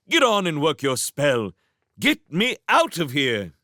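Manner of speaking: high, impatient villain voice; irritated villain prince. Acted. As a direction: snap orders like a spoiled prince.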